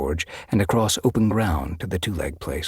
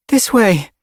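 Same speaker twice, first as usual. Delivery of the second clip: high, loud, eager cry; excited exclamation; 10 dB louder than usual. Acted. Pebblepaw spots the trail, calling out excitedly. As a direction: call out the way, thrilled. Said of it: "she exclaimed".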